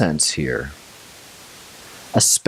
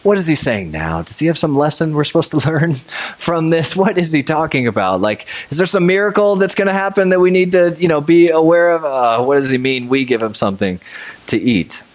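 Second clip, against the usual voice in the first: baffled disbelief; 6 semitones higher than usual. Retold or imitated. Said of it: "probably going".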